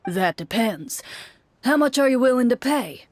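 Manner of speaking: lightly voiced haughty merchant; scornful merchant. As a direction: sneer at a poor offer.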